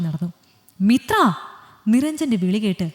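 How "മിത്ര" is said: angry shout of her name, higher and louder; angry call. Acted. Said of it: "ദേഷ്യത്താൽ".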